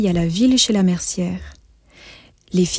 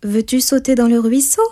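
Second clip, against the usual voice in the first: astonished question; 4 semitones higher than usual. Acted. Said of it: "étonnée, le questionna".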